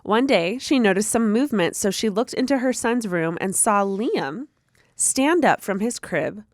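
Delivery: measured read-aloud of a spooky story; storyteller reading, lightly dramatic, phrase by phrase; story narration. A narrator's reading. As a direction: read it out clearly with pauses for suspense. Reads a listener's story aloud.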